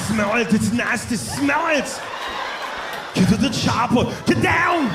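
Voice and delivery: high, drawn-out action-hero shout; urgent movie catchphrase, stretched out; Arnold Schwarzenegger. Acted. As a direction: yell it as a thick-accented action star. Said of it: "He says that in every movie".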